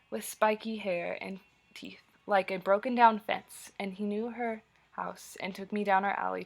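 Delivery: measured poem recital with punched phrases; poetry reading. Acted. Teacher reading a poem to students, measured recital.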